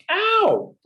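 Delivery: sudden high yelp of pain; a sharp, high ow. A narrator's reading. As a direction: yelp as the stick pokes you. Poked with a stick, cries out.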